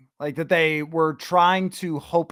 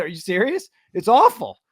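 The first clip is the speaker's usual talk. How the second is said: mock disbelief, jumping higher and louder on the verdict; retold incredulous answer; 3 semitones higher, 4 dB louder than usual. Host retells his Cleveland radio answer, incredulous. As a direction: scoff as if retelling a blunt reply.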